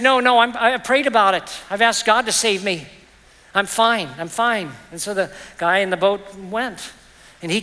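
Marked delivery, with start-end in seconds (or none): 0.0-4.7 stubborn refusal. Acted. Stubborn man refuses rescue.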